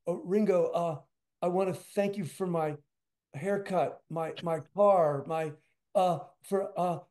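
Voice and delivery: halting, fumbling mock babble; tongue-tied starstruck. Drummer trying to thank a famous musician at a handshake, tongue-tied. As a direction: act out losing your words, grasping for each one. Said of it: "slobbering like a moron".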